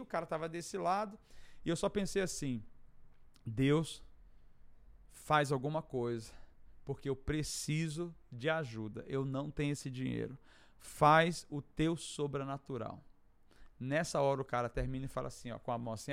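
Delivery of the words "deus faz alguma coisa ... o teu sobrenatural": slow, low plea to God; oração de súplica. Retold or imitated. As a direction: pray it slowly, weighting each phrase. Retold silent prayer in desperation. (súplica lenta e grave)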